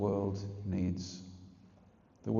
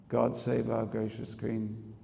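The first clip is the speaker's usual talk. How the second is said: anthem quote; slower than usual. Retold or imitated. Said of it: "came the national anthem".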